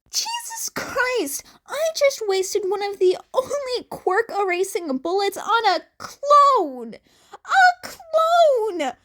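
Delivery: high, loud, crying outburst; voice breaking. A narrator's reading. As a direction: despair cracking into sobs. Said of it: "The teen's voice broke".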